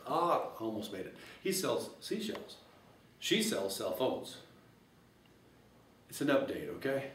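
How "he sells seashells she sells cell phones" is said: tongue twister, quicker. Shown as a demonstration. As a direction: toss the twister off lightly and brightly. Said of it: "you can say this real fast".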